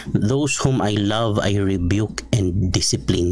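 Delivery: scripture read slowly and gravely; slow solemn quote. Shown as a demonstration. Pastor quoting Revelation to the congregation, solemn.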